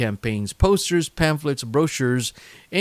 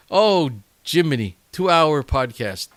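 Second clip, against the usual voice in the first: surprised exclamation; 4 semitones higher, 5 dB louder than usual. Real, not acted. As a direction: exclaim at the length. Realizes how long the episode is.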